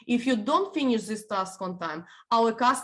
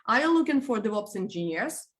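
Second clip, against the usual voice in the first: "are you looking for DevOps engineers?" with the voice lifting at the end; rising question. Shown as a demonstration. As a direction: ask it properly and let "looking" rise. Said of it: "So intonation goes up".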